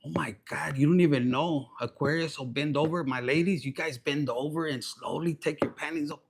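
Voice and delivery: low, soft, naughty murmur; devious. Acted. Devilish side talking to the ladies, low sly murmur. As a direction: drop it low, like a sly secret. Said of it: "that little bit of devious kind of thing".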